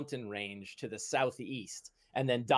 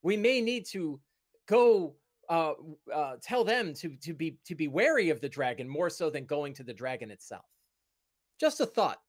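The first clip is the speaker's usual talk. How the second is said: high, tentative, halting counsel; cautious companion character; 4 semitones higher than usual. Acted. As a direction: tactfully talk a friend out of danger. Game master voices cautious companion.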